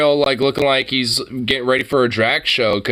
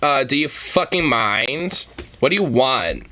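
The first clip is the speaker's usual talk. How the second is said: sassy drag queen. Pretend. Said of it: "getting ready for my drag queen concert".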